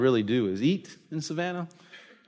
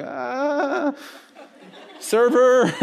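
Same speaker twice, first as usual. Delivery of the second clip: mock panicked call for help; 9 semitones higher, much slower than usual. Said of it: "It's like".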